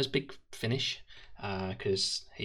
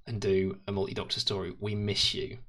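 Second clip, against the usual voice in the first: mock plea; 4 dB louder than usual. Pleading with the actor directly.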